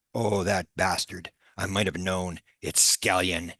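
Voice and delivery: a touch of weary relief, acted. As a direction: let the tension drain out, grumbling mildly. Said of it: "with a great sigh of relief".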